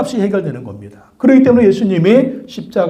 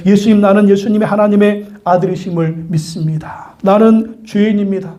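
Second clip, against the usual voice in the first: acted plea for mercy; earnest confession; 3 semitones higher than usual. Dying convict confesses faith to Jesus, earnest. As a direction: confess humbly, measured and sincere. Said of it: "예수님께 고백하는 거죠".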